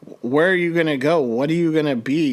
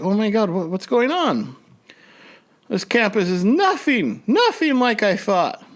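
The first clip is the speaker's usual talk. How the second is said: higher, rattled disbelief; retold panic; 7 semitones higher than usual. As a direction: replay the moment panic set in. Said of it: "I was like".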